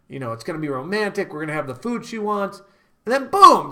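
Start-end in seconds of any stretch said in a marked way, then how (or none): 3.1-3.7 higher, louder burst on boom; excited boom. Real, not acted. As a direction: punch it like a reveal. Hyped punchline.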